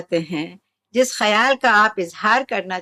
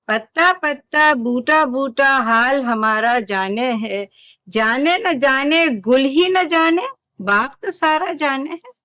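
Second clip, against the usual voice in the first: complaining verse recital. Shown as a demonstration. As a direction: recite it as a grievance, lifting the last lines. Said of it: "इसमें एक शिकायत का अंदाज है".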